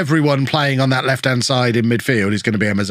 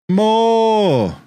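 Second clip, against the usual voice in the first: mock manager yell; 8 semitones higher than usual. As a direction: bark it like a manager on the sideline. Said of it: "he says, whilst clicking encourage".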